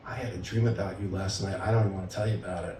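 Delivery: low, soft, reluctant admission; coy confession. Acted. Man hinting at a dream to his partner, coyly. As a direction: imitate someone shyly hinting at a secret.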